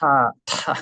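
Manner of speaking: "타, 타" as two separate aspirated bursts; "타, 타" with a strong puff of air; popped t. Shown as a demonstration. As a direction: flick the t sharply in "타, 타". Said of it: "튕기는 소리를 한번 배워봤고요".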